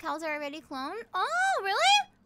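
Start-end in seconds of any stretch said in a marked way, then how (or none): 1.1-2.1 high astonished "really?"; genuinely taken aback; surprised. Real, not acted. Surprised at cloned cows.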